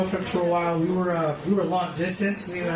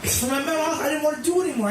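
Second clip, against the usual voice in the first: laughing; 9 semitones higher, faster than usual. Real, not acted. Laughing at himself.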